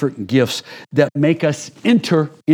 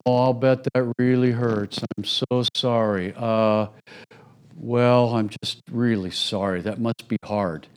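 sympathetic dentist; 4 dB quieter than usual. Acted. Dentist soothing a patient with a sore tooth, soft pitying. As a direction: coo sympathy at the aching patient, softer. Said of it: "And they go".

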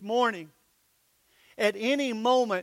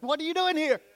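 high, louder startled question; 8 semitones higher, 4 dB louder, faster than usual. Retold or imitated. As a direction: jump at the child in the dark. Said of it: "and you're like".

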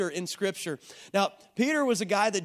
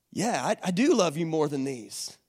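lower-pitched, mildly wounded insistence; stung; 4 semitones lower than usual. Retold or imitated. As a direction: insist haltingly, a little hurt. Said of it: "feel the little sting in Peter's heart".

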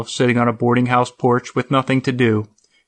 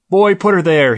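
loud, high hearty hello; hearty greeting; 6 semitones higher, 5 dB louder than usual. A narrator's reading. Blinks greets an old coworker with a loud hearty hello. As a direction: Blinks booms a welcome with his hand out.

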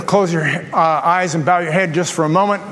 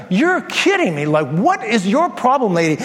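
exasperated. Retold or imitated. Pastor retells irritated thought again.

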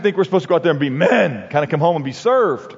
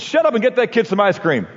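put-on bossy kid; 6 semitones higher than usual. Kid mimics dad in play.

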